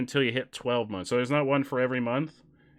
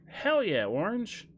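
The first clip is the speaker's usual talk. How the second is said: excited cheer; 7 semitones higher, slower than usual. Real, not acted. Celebrating a follower milestone.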